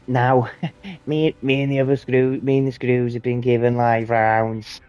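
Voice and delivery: a hint of a slow, deadpan sergeant giving orders, broken by laughs; lightly voiced sergeant, slow and laughing through it; platoon sergeant. Sergeant briefing new recruits, lightly mocked slow voice. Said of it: "he was like".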